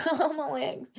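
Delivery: Oh, my legs said through a laugh; laughing groan. Real, not acted. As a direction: laugh at your own stiff legs. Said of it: "sitting in that tiny chair too long".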